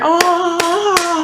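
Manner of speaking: high, drawn-out mock moan; imitated moan. Storyteller imitates what he hears walking in, mock moaning. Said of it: "still moaning on the bed".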